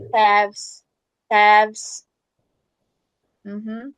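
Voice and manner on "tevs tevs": tevs, final V softened halfway to U; tevs: meio V, meio U; half V sound. Shown as a demonstration. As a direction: tevs with a gentle V, not hard. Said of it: "Mas é mais pra V".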